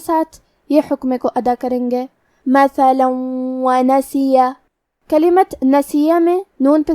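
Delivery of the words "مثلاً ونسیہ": مثلاً ونسیہ, tanween merged into the waw, nasal; idgham with ghunna. Shown as a demonstration. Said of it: "تنوین کو واو میں ملا کے غنہ". (مثلاً ونسیہ میں ادغام بغنہ)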